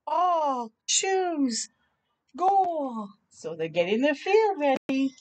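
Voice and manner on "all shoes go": put-on higher, eager kid voice calling out; excited boy calling. Little boy calls friends onto the field, eager. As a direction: call the team together.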